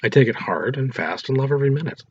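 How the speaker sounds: hammed-up boast; dramatically. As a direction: lay it on thick. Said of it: "She said this quite dramatically".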